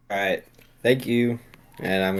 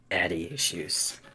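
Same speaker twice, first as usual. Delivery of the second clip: mocking Austin; 9 dB quieter, slower than usual. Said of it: "somewhere Austin's like".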